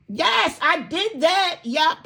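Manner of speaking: high, slow "Yes, I did that" cheer; triumphant shout. Shown as a demonstration. Speaker showing viewers how to cheer a small win, triumphant. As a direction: celebrate out loud like you won. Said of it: "I want you to shout".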